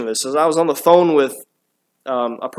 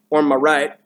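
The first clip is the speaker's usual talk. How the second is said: Southern accent. Real, not acted. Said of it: "a little southern accent slipped in there".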